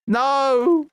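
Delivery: high-pitched drawn-out cry; exclaimed no. Real, not acted. Streamer reacting as the game turns, high yelped no. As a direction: let a "no" leap up high. Game moment goes wrong.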